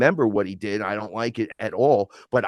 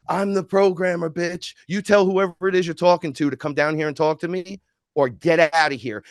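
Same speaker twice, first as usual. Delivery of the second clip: raised, commanding comeback; fierce, pitched-up challenge; defiant retort; 5 semitones higher than usual. Retold or imitated. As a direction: put the angel in his place, higher and defiant. Defiant quote to sword angel.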